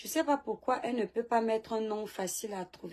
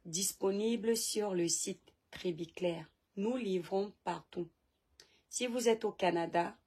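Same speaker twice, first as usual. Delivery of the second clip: ad read. Real, not acted. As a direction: recite the sponsor message in careful, separated phrases. Reads a product promotion. (annonce publicitaire posée)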